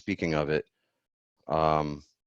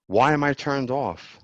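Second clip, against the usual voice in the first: higher, slower startled question; surprised; 8 semitones higher, 4 dB louder than usual. Real, not acted. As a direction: caught off guard by the mute button. Startled by a tech glitch.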